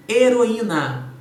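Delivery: Heroína drawn out slowly and loudly, syllable by syllable; slow syllable demo. Shown as a demonstration. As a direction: stretch out He-ro-í-na and land on the í. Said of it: "eu tenho a separação entre o e i".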